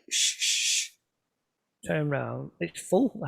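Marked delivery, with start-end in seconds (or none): 0.1-0.9 whispered shush; a sharp unvoiced shh to hush him. Birdwatchers in the hide hush the noisy newcomer, whispered shh. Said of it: "and I hear, "Shh".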